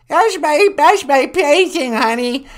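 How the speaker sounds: put-on hard-of-hearing old woman; old lady voice. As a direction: croak like a deaf granny. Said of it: "She's really old and nasty".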